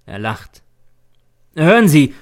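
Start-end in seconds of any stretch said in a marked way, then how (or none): 1.6-2.1 loud, raised demand for attention; impatient, pitched-up shout; shouting at him. A narrator's reading. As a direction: yell to stop him short. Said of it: "schrei ich ihn an".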